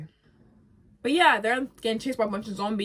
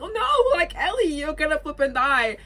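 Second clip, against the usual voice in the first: much higher, louder panicked cry; panicked Dina; 8 semitones higher, 8 dB louder than usual. Retold or imitated. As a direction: shriek in alarm as Dina. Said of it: "Dina's like".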